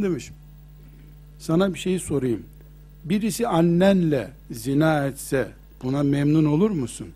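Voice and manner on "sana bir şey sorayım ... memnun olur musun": low, soft, patient questioning; lowered, softened voice; gentle fatherly question. Retold or imitated. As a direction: retell a kind elder reasoning quietly with a youth. Prophet gently questions the young man.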